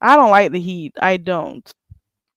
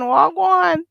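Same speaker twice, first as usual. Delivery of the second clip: Jamaican patois; 9 semitones higher, 3 dB louder than usual. Shown as a demonstration. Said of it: "Good morning in patois".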